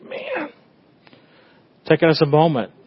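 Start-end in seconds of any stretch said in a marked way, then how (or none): 0.0-0.5 mild frustrated groan. Acted. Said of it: "you're struggling with something and you think".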